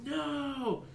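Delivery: the creature shrieks again, harder. Acted. Giant figure screaming at the second gong strike. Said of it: "and the figure's like".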